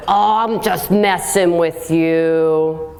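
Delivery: slow, drawn-out teasing brush-off; mock dismissive excuse. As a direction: lazily wave it off as a joke. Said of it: "That's what they'll do".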